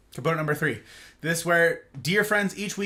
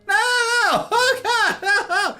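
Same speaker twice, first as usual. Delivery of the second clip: retold panic; 13 semitones higher, 6 dB louder than usual. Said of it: "and I was like".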